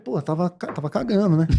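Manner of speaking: sheepish confession breaking into a laugh; laughing admission. Retold or imitated. Man tells girl he was on toilet: sheepish, laughing. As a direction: own up while half laughing.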